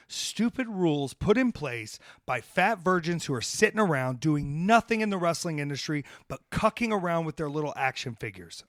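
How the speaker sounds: heated, forceful rant at the rule-followers; fired up. Real, not acted. Wrestler telling young wrestlers off for obeying rules, fired up. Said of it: "see, I'm getting fired up".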